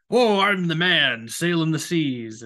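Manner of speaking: slow, lightly puffed-up sailor boast; a hint of a grand seafarer, slowed down; mock Conrad. Mocking the author as a proud sailor, lightly voiced. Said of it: "I get Conrad in there too".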